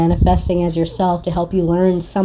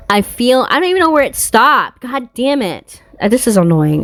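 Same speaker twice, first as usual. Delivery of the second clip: exasperated; 5 semitones higher than usual. Real, not acted. Recording stopped, frustrated.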